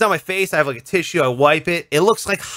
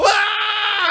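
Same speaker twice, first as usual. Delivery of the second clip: high startled yelp; high panicked squeal; mock shout. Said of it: "And I go".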